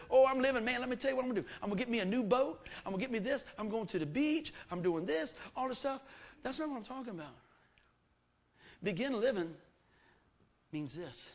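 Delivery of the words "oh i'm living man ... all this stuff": higher, cocky bragging voice; a hint of a boastful worldly guy. Worldly guy at a cookout bragging back, cocky. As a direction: brag about boats and beaches. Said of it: "I said, Begin living".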